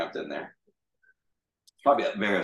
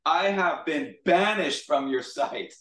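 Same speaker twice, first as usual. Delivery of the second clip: slow, higher, overwrought lament; mock-dramatic Jonah, slow and higher; super dramatic; 7 semitones higher, slower than usual. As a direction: ham up the misery like a tragic hero. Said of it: "This guy's super dramatic".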